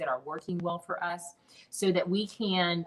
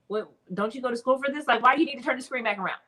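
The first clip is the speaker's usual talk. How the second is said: alarmed; 6 semitones higher, 5 dB louder, faster than usual. Retold or imitated. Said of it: "I was like".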